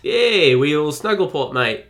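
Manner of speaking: loud, hammed-up Australian cheer; a cheery fake Aussie bloke greeting his mate; mock Australian. Host teasing co-host Grant with Australian slang, mock Australian accent. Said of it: "I read that that was a term in Australia".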